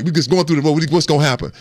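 mock coach shouting the final score. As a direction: yell the score like a promise. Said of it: "he was like".

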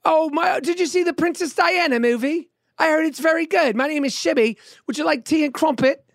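high, dainty mock British; slow, hammed-up British tea-time accent. Shown as a demonstration. Co-host tries the accent back, mock British. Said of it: "See, that's pretty good".

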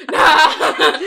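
mock exclamation. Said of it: "Deli would be like".

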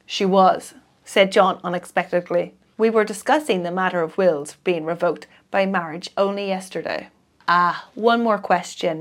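measured audiobook reading with voiced dialogue; story narration. A narrator's reading. Reader narrating a detective novel to listeners, audiobook manner. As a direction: read the mystery to a listener, steady and clear. Reads a mystery novel aloud.

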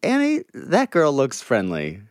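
high, put-on voice for a passerby; mock stranger voice. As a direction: play a gushing stranger sizing someone up. Mocking what strangers think.

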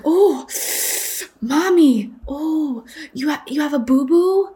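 put-on high little-girl voice, worried; concerned toddler. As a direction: voice a worried three-year-old. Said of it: "so concerned".

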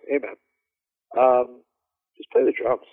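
easy, unhurried, no pressure at all; calm. Retold or imitated. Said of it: "Calm like that".

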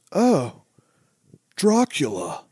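hammed-up naive recognition, words set apart; Keanu Reeves. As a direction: imitate a clueless actor greeting something utterly new. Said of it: "like he's seeing, you know, a pillow".

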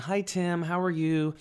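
imitating a sweet, welcoming massage lady; really nice. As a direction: welcome the client in sweetly, put-on niceness. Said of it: "she was, like, really nice".

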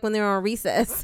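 ordinary talk, nothing marked

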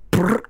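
lip-buzzed "brrr" sound effect; short sputtering mouth noise; imitated splat noise. Mimicking a too-thin Blizzard falling out, sputtered noise. And they go.

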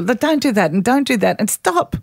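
rising, sharp "stop" at the end; nagging parent. Retold or imitated. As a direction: rattle off orders like a tired parent. The parent as kid police.

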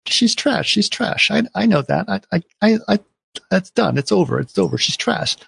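high-pitched, repetitive mock pleading; insistent pleading. Husband disowning his girlfriend to his wife, high insistent plea.

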